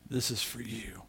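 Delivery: put-on soft whisper of a little boy giving a gift; child's whisper. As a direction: breathe it out shyly like a small kid. Grandson gives picture, speaks softly.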